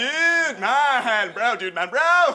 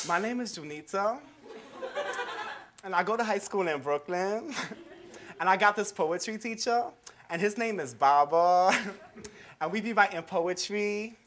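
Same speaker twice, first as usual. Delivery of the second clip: put-on giggly teen girl. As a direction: keep breaking into nervous laughs. Giggly shy teen student.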